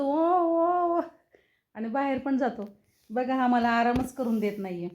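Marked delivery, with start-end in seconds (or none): 0.0-1.0 high little puppy yelps, lightly mimicked; puppy whimper imitation. Owner mimics puppy crying at doorstep, high yelps. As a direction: copy the pup's cries from the doorway. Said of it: "मग ओरडतो".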